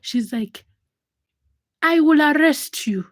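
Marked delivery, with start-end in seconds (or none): 1.8-3.1 loud, higher firm threat; stern threat. Retold or imitated. Mother threatening the man who hissed at her daughter, stern. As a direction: lay down the law.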